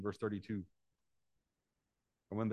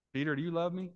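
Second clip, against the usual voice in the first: Jesus asking again; 6 semitones higher, faster than usual. Acted. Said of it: "Ask me a third time".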